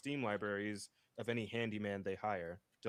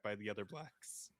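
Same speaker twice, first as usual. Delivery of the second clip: whispered aside; 2 semitones lower, 9 dB quieter than usual. Real, not acted. Drops to an aside.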